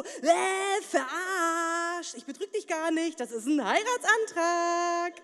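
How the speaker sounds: loud gotcha reveal, hammed-up; spring the surprise on her; mock prank reveal, drawn-out ending.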